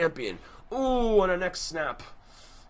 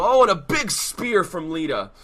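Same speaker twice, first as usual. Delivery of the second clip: excited call; 2 semitones higher, 6 dB louder than usual. Acted.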